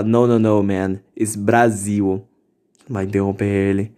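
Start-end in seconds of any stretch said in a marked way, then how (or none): 0.0-2.3 mock correction. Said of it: "Você interrompe ele e fala".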